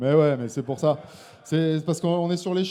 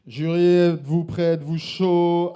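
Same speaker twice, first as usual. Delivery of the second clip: hype shout; 9 dB louder, slower than usual. Real, not acted. Host firing up the jury before scores, loud. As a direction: fire up the jury.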